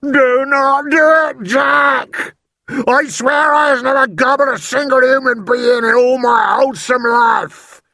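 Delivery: very high, loud giant's wail; terrified pleading. A narrator's reading. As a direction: scream your innocence in panic. Giant begs Jack in his nightmare.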